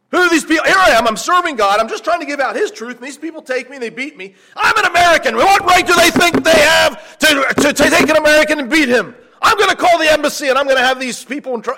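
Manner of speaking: high, loud, outraged entitled griping; indignant complaining. Retold or imitated. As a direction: rant like a wronged American demanding his rights. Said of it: "probably complaining".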